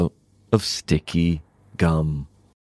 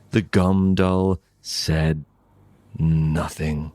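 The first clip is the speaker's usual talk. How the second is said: usual speaking voice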